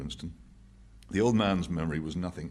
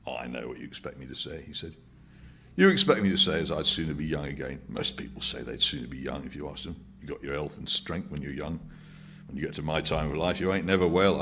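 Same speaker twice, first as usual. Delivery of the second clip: put-on old man musing, a touch mellow; tolerant, philosophic. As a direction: settle back, mellowed by beer. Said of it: "tolerant, philosophic air".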